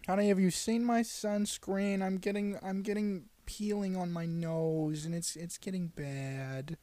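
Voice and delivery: lightly voiced fussy wife, slow and whiny; a hint of a nagging wife asking for sunscreen; Jewish wife voice. Pretend wife asks husband for sunscreen, lightly voiced fussing. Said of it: "That Jewish wife said".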